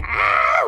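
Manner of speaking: brief imitated cry of rage; half-hearted "aah" of online fury; mock raging scream. Retelling women venting online during the trials, mock raging scream. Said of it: "like raging".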